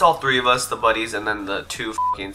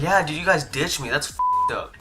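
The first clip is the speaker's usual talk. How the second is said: higher-pitched mock grievance; guilt-tripping; 4 semitones higher, 3 dB quieter than usual. Salty kid to friends who ditched him, mock aggrieved guilt trip. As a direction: accuse them as the injured party. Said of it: "completely switching my attitude about him".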